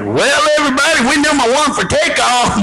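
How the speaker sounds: high, silly Elmer Fudd-like pilot; goofy pilot. Acted. Goofy pilot telling everybody about takeoff, high and cartoonish. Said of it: "This dude, we're at the end of the runway. He's like".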